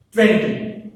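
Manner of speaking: "Twenty" with a loud first syllable; first-syllable stress. Shown as a demonstration. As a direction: hit the start of "Twenty", let the end drop. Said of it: "Stress is on the".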